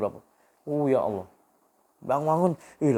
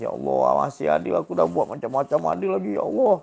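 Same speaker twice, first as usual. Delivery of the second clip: imitating a tearful plea; 6 semitones higher, 5 dB louder than usual. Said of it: "sampai nanti kita pun nangis".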